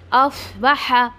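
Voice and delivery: अफ with a heavy swad, then बहा drawn out slowly; heavy full-mouthed अफ, slow बहा; tajweed demo. Shown as a demonstration. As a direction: model reading of अफ, बहा. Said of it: "इसको heavy करना है".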